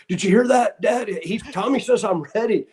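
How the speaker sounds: put-on high, eager boyish voice; imitating his younger excited self; excited kid. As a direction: burst out like a thrilled teenager. Eager son retelling excitement.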